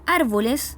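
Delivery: "árboles" with the weight on ÁR; stress on antepenultimate syllable. Shown as a demonstration. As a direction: hit the first syllable of "árboles". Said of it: "en la antepenúltima sílaba".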